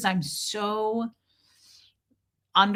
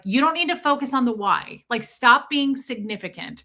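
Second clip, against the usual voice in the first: slightly raised mock telling-off; lightly scolding, pitched up at first; imitated reprimand; 4 semitones higher than usual. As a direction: mimic an auditor correcting someone. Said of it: "would always reprimand me and go".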